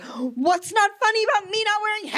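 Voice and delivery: high, indignant comic rant; yelling at audience. Pretend. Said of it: "me yelling at the audience".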